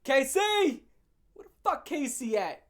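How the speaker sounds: loud, rough demand for KC; hammed-up heavy storming in; tough rep voice. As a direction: barge in calling for him. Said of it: "He was like".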